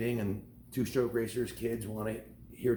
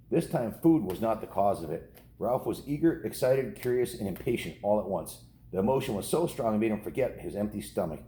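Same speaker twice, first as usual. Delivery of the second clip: steady storybook read-aloud, a touch livelier than chat; reading to children. Acted. Dad reading The Mouse and the Motorcycle chapter to kids, storybook voice.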